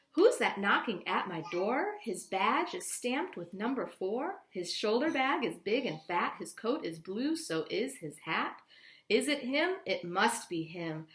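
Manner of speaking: lively rhythmic poem reading; reading to children. A narrator's reading. Teacher reading a poem to her class, lively and rhythmic. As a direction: read the rhyme with a bouncing beat.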